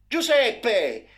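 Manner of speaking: high, loud desperate scream of his name; mother screaming for her boy; mother's shout. A narrator's reading. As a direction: scream for your son in terror. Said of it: "gridò sua madre".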